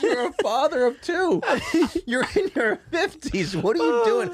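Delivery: high, incredulous telling-off through laughter; laughing mock scolding. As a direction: scold a friend while cracking up. Mock scolding friend while laughing.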